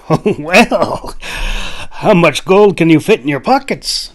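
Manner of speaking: sly hunter. A narrator's reading. Jack tempting the Clove with gold, sly. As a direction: tease him with the riches, slowly. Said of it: "Jack inquired".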